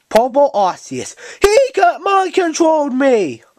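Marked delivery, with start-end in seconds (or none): 1.4-3.4 mock crying. Character whines about hated toy.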